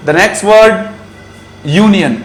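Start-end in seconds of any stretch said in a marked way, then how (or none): 1.7-2.1 "union" opening with a y glide; y-sound pronunciation. Shown as a demonstration. Teacher introducing the next word, "union" said with initial y. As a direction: say "union" as YOO-nee-un. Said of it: "it is union".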